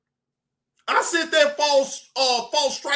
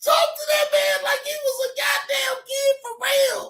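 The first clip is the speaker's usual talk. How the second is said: high, incredulous shout; excited shout; 12 semitones higher than usual. Real, not acted. Telling the stream, high incredulous shout. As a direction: shout it, half laughing.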